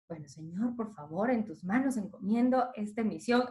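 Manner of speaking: low, soft murmured prayer before going on air; a quietly retold plea to God; hushed nervous prayer. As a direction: pray under your breath, nervous.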